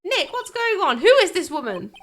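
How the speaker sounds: hammed-up jealous outburst; worked up. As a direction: get dramatically worked up on purpose. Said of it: "more dramatic if I got all worked up".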